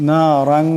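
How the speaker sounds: নারাং with the নুন held nasal for one alif length; nasal ghunnah. Shown as a demonstration. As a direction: hum the ং of নারাং for one count. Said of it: "এমন করে". (নারাং-এ এক আলিফ গুন্নাহ)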